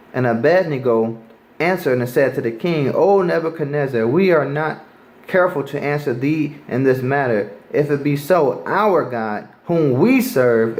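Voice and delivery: preacher reading scripture to the street crowd. Acted. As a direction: read the King James verse aloud with weight. Reads the three brothers' answer.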